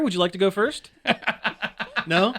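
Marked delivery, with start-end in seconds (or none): 1.0-2.0 rapid mouth nail gun noise; nail gun impression. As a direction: imitate a nail gun's pops. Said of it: "my impression of a nail gun".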